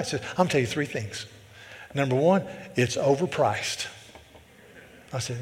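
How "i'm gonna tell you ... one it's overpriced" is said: imitated thick Southern man; thick Southern accent. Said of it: "this guy was thick".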